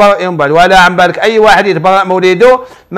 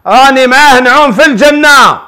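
higher, imitating the contented wife; blissful wife; 5 semitones higher than usual. Sheikh showing how the wife said it, higher and blissful. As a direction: sound like a wife lost in happiness. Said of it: "هكذا،".

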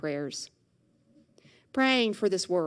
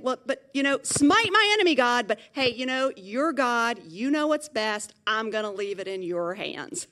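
psalmist; 3 semitones higher, 5 dB louder than usual. Retold or imitated. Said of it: "it's usually the psalmist saying".

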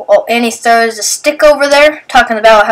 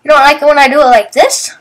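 louder teasing; 5 semitones higher, 4 dB louder, faster than usual. Retold or imitated. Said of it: "Now I'm doing it again 'cause I'm annoying".

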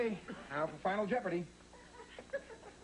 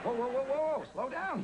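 loud high whoas to halt a friend; rising alarm, whoa whoa whoa; reining in; 10 semitones higher, 3 dB louder than usual. Acted.

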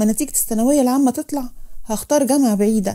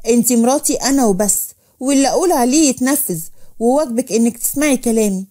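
mildly angry, possessive order; firm, domineering husband; stern command. Acted. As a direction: lay down the law to your wife. Husband gives orders in acted quarrel.

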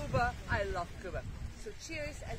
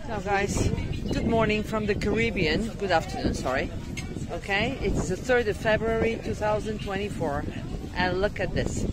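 loud; 8 dB louder than usual. Real, not acted. Loud greeting over the sea.

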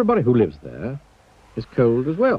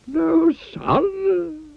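surprised. Acted. Wizard surprised.

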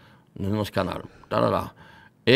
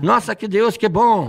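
higher, lightly put-on exclamation; mock delight; 6 semitones higher, 3 dB louder, slower than usual. Guest says what he shouts when burning his hand, mock delight. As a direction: cry out in pretend delight at pain.

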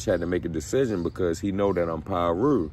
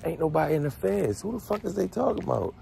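higher and softer, baffled to himself; puzzled muttering; 10 semitones higher, 4 dB quieter than usual. Retold or imitated. Newcomer puzzling over who's from his block, high and hushed. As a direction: wonder aloud who they mean. Narrator's confused inner thought.

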